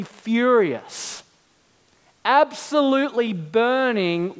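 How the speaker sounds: reading the writer's graveside words with mounting passion; reading a quote. Retold or imitated. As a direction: let the outrage rise. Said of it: "He says".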